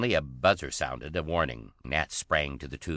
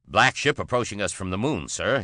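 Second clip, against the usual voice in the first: higher, louder alarmed report; stammering; 6 semitones higher, 5 dB louder than usual. A narrator's reading. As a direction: blurt it out shaken. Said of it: "he stammered".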